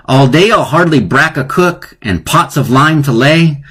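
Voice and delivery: lightly hammed-up poem recital; reading the poem to students; mock serious recital. Shown as a demonstration. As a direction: recite it straight-faced. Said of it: "Don't laugh. This is your English class".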